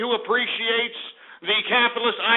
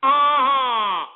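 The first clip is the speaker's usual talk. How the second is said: sarcastic fake laugh at a bad joke; dry forced ha ha, unamused; annoyed laugh; 3 semitones higher, 3 dB louder, much slower than usual. Real, not acted. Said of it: "real funny".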